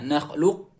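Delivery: "nakhluq" stopped on a heavy q, no echo. Shown as a demonstration. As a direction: set up the q in "nakhluq" without releasing a bounce. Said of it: "seperti kita mau mengucapkan huruf qaf".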